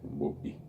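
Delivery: bo-i with a catch between o and i; glottal stop in boi. Shown as a demonstration. Teacher demonstrating the puso in "bo-i". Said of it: "entre la o y la i".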